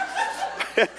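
short airy laugh; quiet laugh after the punchline; wheezy little laugh; breathy chuckle. Real, not acted. Laughs after his joke.

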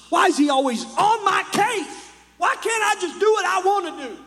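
put-on high, complaining teen voice; gasp, then whine it like a sulky kid; lightly hammed-up resentful teen; whiny teenager.

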